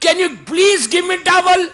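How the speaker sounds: high, slow, sweetly drawn-out please; polite request. Retold or imitated. Son asking his new wife politely for a towel, slow sweet plea. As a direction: ask nicely, stretching every word.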